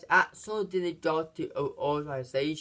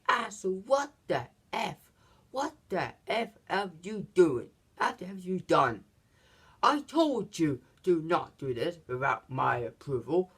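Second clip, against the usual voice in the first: angry boss. Retold or imitated. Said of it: "And he was angry".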